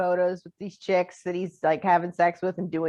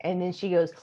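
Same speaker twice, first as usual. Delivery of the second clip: usual speaking voice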